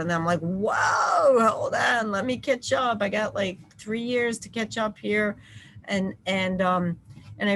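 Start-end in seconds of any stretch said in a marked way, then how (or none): 0.4-5.4 raised-pitch "whoa, hold on" half-shout; retold startled mom, higher; mock alarmed mom. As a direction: pull someone up short, a little panicked. Mom reining in eager son.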